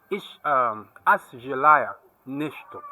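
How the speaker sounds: careful Russian words, slow; slow Russian phrase. Shown as a demonstration. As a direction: say "as jelaya neshto" slowly in Russian. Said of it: "If I want to say".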